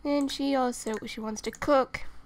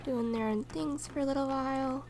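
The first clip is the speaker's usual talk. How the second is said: hushed; 5 dB quieter than usual. Real, not acted. Narrating sims quietly.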